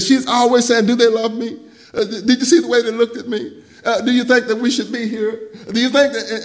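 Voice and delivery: friend's wife voiced as insecure complainer; mock fretful wife. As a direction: whine like a worried wife.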